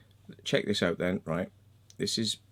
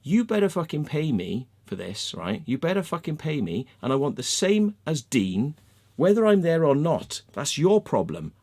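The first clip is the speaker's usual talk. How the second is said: angry ultimatum. Retold or imitated. To the project team, a heated ultimatum to get paid. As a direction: lay down the law, fuming. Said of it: "So I went fucking angry".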